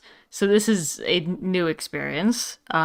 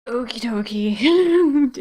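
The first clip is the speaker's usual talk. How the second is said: slow, stretched "Okie dokie", pitched higher; drawn-out okie dokie; 5 semitones higher, 5 dB louder, much slower than usual. Acted. Chicken character back in game, slow playful okie dokie. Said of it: "chicken wouldn't say okie dokie".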